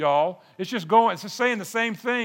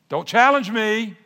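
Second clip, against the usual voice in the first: mock-stern dad laying down the law, a bit higher; gruff fatherly warning; 4 semitones higher, 4 dB louder than usual. Father warns a challenging little one, gruffly. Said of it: "you don't say it as gruff".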